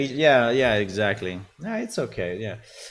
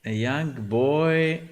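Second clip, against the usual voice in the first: slow dictation; 5 semitones higher, slower than usual. Real, not acted. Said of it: "dictating prompt slowly".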